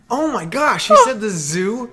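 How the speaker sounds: high, slow, loud disbelief; shocked gasp. Real, not acted. Gasp at outrageous story.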